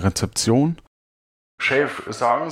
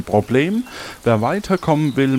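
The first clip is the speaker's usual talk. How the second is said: usual speaking voice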